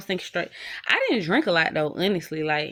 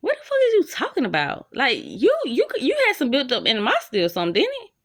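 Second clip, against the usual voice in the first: high disbelieving outburst; retold incredulous comeback, higher; 4 semitones higher than usual. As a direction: throw it back at him in disbelief. She retells confronting him.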